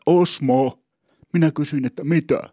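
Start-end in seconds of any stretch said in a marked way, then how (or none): 0.1-0.8 calling out a name, a bit louder; retold brisk call to his son. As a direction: hail the boy briskly across the boat. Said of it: "Hän huusi reippaalla äänellä".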